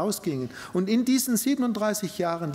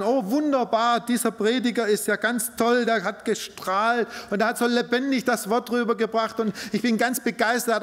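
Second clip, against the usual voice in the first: mock gushing churchgoer; 5 semitones higher than usual. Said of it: "Man kann auch sagen".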